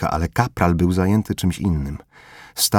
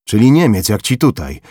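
louder, higher, mocking jab; sneering accusation; 3 semitones higher, 6 dB louder than usual. Corporal sneering at Formela, louder mocking accusation. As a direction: needle him about being German.

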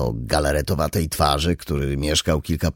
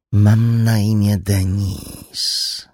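lowest possible voice; 3 semitones higher, 3 dB louder, much slower than usual. A narrator's reading. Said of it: "Niżej się nie dało".

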